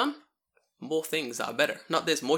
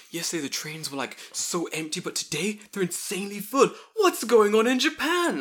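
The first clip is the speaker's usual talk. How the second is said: clueless tourist; 7 semitones higher, 5 dB louder than usual. Retold or imitated. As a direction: whine like a baffled newcomer to Japan. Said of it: "someone going like".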